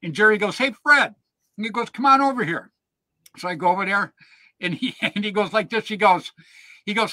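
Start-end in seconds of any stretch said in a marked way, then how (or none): 0.6-2.7 higher, louder call across the field. Retold or imitated. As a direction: hail him from a distance, higher and louder. Jerry calling him over.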